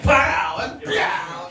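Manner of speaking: punchy exclaimed pows; mock fight noises. Daydreamer picturing himself in an action movie, punchy. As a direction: spit out comic-book punch sounds.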